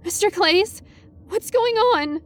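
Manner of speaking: high, squeaky frightened question; squeaky and terrified. A narrator's reading. Student asking physics teacher what's happening, squeaky and terrified. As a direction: let fear push the voice way up. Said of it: "how squeaky and terrified my voice".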